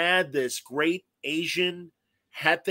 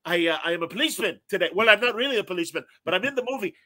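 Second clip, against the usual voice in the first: put-on Sergio's heavy accent; 4 semitones higher, 4 dB louder, faster than usual. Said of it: "because of Sergio's heavy accent".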